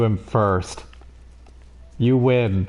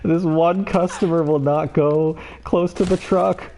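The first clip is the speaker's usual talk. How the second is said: drawn-out, higher, strained hope; slow tense excitement; 5 semitones higher, slower than usual. Real, not acted. One customer away from winning, slow tense excitement. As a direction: hold your breath as the goal nears. Tense near-win in game.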